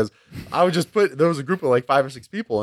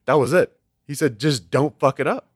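blunt; 4 semitones higher than usual. Retold or imitated. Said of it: "he was just blunt about it".

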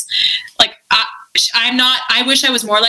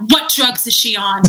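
paramedic's demand. Retold or imitated. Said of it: "she comes in and she was like".

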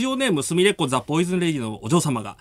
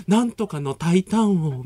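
slow imitation of a Kyoto-accented cooking teacher; mimicking heavy Kyoto dialect; slower than usual. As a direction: stretch it out in a Kyoto lilt. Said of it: "すっごい京都弁の先生".

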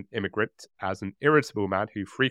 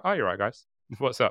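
nonchalant; faster than usual. Pretend. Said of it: "nonchalantly just being like".

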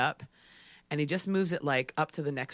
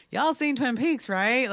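incredulous aside; 9 semitones higher, 6 dB louder, slower than usual. Retold or imitated. Staring at friends in disbelief.

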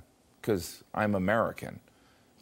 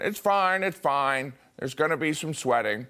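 brain reassuring; 5 semitones higher than usual. Retold or imitated. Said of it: "My brain will chime in".

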